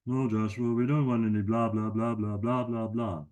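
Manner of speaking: a cheeky friend who butts in; a hint of a goofy puppet buddy; Sammy the sidekick. Sammy echoes host.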